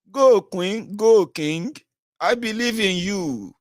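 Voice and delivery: high, slow cheerleading chant; rally them like a hype man; mock cheering. Mocking fans, high slow hype cheer. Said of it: "I say".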